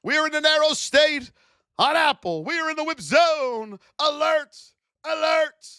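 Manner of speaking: high, loud, urgent market alert. Real, not acted. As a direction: call out the alarm to the chat. Alert call on a stock.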